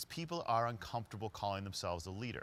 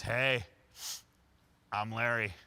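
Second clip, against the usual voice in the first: louder, a bold hello to a stranger; loud greeting; 5 dB louder, slower than usual. Retold or imitated. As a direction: boom out a cheerful introduction. Larry leans in greeting the date.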